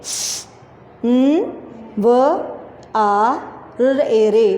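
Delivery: careful letters for pupils; spelling out letters. Shown as a demonstration. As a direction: build निखारे letter by letter. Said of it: "संवारे".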